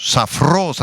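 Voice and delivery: safros stressed on the final O; "safros" as sa-FROS; Greek pronunciation. Shown as a demonstration. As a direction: say "safros" with an S sound, accent on the O. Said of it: "con S y acento en la O".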